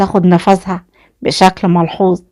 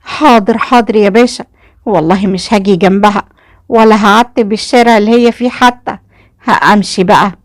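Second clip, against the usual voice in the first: hurried, eager; 2 semitones higher, 6 dB louder than usual. A narrator's reading. Mother promising the officer she'll stay away, hurried and eager. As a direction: agree hastily, keen to get away. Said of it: "قالت بسرعة ولهفة".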